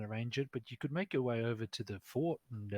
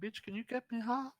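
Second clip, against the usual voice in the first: sassy woman npc; 10 semitones higher, 6 dB quieter than usual. Acted. GM voicing the dancer, ranting to the players in a high brassy voice. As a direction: rant about goblins in a shrill high voice. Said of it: "she's like".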